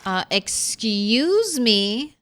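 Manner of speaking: slow, offended excuse me; drawn-out mock indignation; indignant excuse me. Real, not acted. Furniture wall broken in game.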